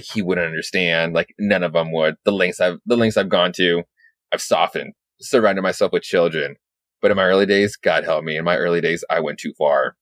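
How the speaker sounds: low, grave inner monologue, lightly voiced; lightly voiced brooding Batman. Batman confessing his past, low and grave.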